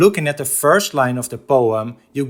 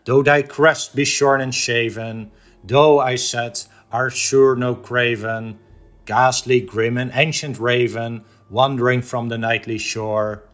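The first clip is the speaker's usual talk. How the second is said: measured, rhythmic verse reading; solemn cadence with a hushed final word; poem recitation. Acted. Recites The Raven stanza by stanza.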